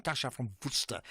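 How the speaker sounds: Worcester said the Afrikaans way, "Worcester" with a full "Woo-ster"; a light Afrikaans take on "Tasha from Worcester"; Afrikaans accent. Shown as a demonstration. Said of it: "with my best Afrikaans accent".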